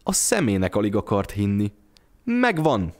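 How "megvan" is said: higher, bright exclaim of discovery; excited cry. A narrator's reading. Mother finding a coin in the pocket, excited cry. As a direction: call it out as the coin turns up. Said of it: "kiáltotta".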